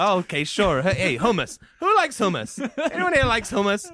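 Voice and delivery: lightly voiced hacky stand-up comic; Dave Kerry. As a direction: work the club crowd like a local comedian. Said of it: "Local comedian Dave Kerry".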